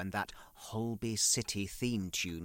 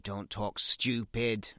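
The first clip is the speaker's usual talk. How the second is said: slow retort; slower than usual. Retold or imitated. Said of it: "I said".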